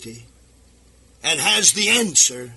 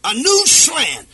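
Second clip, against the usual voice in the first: slow rising emphasis; 3 dB louder than usual. Acted. Preacher rising against new versions.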